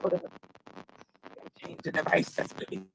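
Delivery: glitchy broken mic sound; cutting out like a broken phone; broken phone audio. Real, not acted. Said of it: "think my phone is broken".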